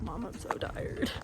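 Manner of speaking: slow, breathy whisper of a worn-out horse; voicing the tired pony. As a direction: sigh it out like a sleepy pony. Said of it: "He's like".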